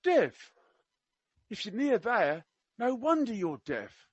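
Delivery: high mock Cockney, opening on a questioning word; attempted Cockney. Quoting the prince to deaf people, in attempted Cockney. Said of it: "I can't do Cockney. I will try my best".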